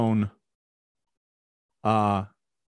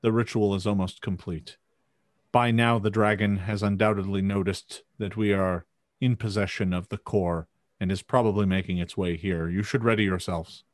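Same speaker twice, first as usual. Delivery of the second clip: grave NPC warning; 6 semitones lower, faster than usual. Acted. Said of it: "she looks at you and says".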